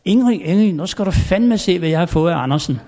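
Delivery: king calling his wife in delight. Retold or imitated. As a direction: call for Ingrid, then rush the rest. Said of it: "så råber han".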